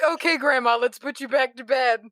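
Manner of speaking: meme caretaker voice. Retold or imitated. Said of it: "It's like that meme".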